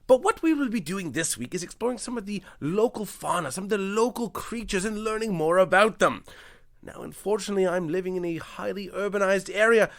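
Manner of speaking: mock British nature presenter, badly done; atrocious British accent. Nature host explaining break-ins, in a bad British accent. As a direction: overdo a shaky British accent. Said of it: "My accents are absolutely atrocious".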